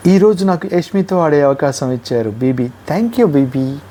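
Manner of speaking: slow, smug teasing thanks; mock gloating. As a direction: drag the thanks out to needle her. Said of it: "ఎలా కెలుకుద్దంటే మనిషిని".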